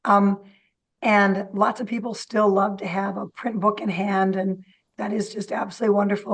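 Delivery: a slightly squeaky, strained voice. Real, not acted. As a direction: talk through a squeaky voice. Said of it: "Sorry about my squeaky voice today".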